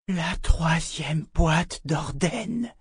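very slow, drawn-out pronouncement; blank, toneless voice. A narrator's reading. The seer reveals the box to Richard, in a blank voice. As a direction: say it slowly, as if drained. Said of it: "dit la voyante d'une voix blanche".

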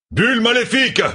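very high-pitched cry of warning; alarmed cry. A narrator's reading. Arnan warning of an evil bubble, crying out. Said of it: "cria Arnan".

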